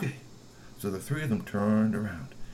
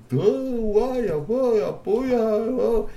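dazed groaning; 11 semitones higher, 5 dB louder, much slower than usual. Acted. Fallen GP moans on the ground, high and loud. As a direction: groan from the floor.

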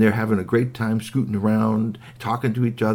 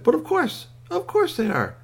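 very high little toy voice; matter-of-fact squeaky toy. A narrator's reading. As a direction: pipe up as if it's obvious.

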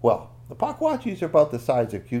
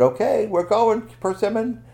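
high, loud, slowed announcement; storybook heroine, pitched up and eager; rallying call; 11 semitones higher, 6 dB louder than usual. Acted. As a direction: call the cat along for the getaway. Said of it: "She said".

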